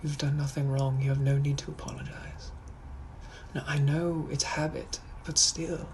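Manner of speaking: gentle British comfort; tender Victorian gent soothing his darling; reassuring British gentleman. Acted. Gentleman comforting an over-apologiser, reassuring British accent. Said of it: "I'm a British gentleman from the eighteen hundreds".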